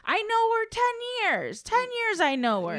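high, slow, loud mock New Yorker; New York phrasing. Imitating how New Yorkers say it, exaggerated accent. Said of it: "they say stuff like".

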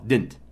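Didn't said as one syllable, dent; Didn't squeezed into one quick beat. Shown as a demonstration. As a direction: drop the second D in Didn't. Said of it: "pronunciado como uma sílaba só".

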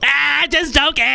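mock just kidding.

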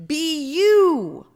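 high, loud rallying cry; pep talk. Pretend. Host giving kindergartners a pep talk, rousing and loud. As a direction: belt it out, drawn out.

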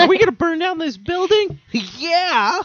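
high squeaky mock voice; high silly voice. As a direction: squeak it out playfully. Baby arsonist voice.

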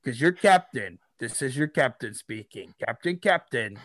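lightly voiced captain on the intercom; a hint of the cheerful pilot.

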